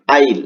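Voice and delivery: "আইল", I and will merged with no w sound; contraction "আইল". Shown as a demonstration. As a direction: say "আইল" as one word. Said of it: "এর উচ্চারণটা কি হবে".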